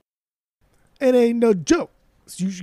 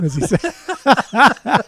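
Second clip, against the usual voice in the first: imitating the rapper; 7 semitones higher, 5 dB louder, much slower than usual. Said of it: "as he says it".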